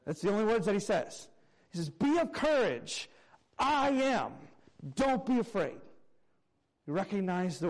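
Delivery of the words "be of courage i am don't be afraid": reassuring Jesus. Acted. Jesus voiced calming disciples.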